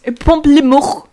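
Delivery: loud, exaggerated French with a throaty ending; mock French accent. Host mangling the drink flavour, mock French accent. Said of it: "sorry to any French people".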